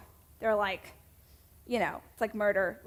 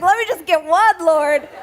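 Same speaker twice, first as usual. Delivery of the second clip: mock prayer; 6 semitones higher, 10 dB louder than usual. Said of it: "I was like".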